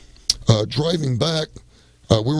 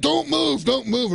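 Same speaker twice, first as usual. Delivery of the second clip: mock police order; 11 semitones higher, slower than usual. Cops shouting commands.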